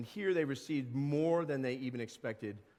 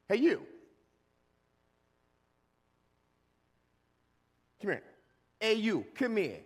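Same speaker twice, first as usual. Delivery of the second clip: higher, louder barked call; rough shouting boss; 6 semitones higher, 5 dB louder than usual. Acted. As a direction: yell at the workers like a harsh boss. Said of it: "I don't think the master spoke like that".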